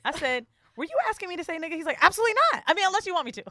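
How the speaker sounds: normal talking voice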